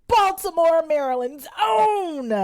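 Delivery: loud high hype announcement; announcer voice. Pretend. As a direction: announce it like a host. Announcer build-up.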